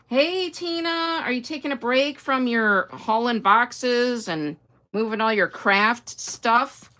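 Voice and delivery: high, slow, bright-eyed hello; excited greeting. Real, not acted. Greeting a viewer by name, high and drawn out. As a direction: call out to her happily.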